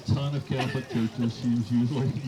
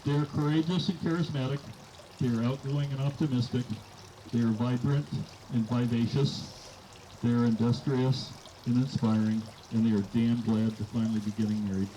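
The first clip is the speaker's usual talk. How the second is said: wedding toast. Real, not acted.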